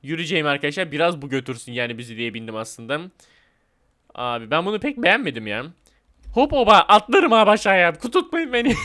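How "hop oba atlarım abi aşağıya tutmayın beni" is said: mock daredevil yell. Mock jump off the ride.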